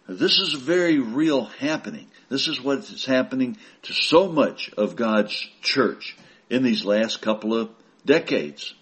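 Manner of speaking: usual speaking voice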